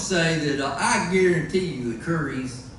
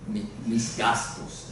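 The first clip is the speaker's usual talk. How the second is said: Spanish; 7 semitones lower, 7 dB quieter, slower than usual. Shown as a demonstration. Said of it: "as they say in Spanish".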